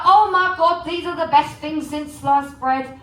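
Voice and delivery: excited Cockney mum. Retold or imitated. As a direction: gush like a delighted Cockney mum. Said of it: "You should hear my mum".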